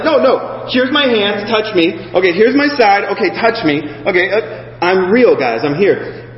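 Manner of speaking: high, pleading reassurance; Jesus voiced lightly. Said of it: "he has to be like".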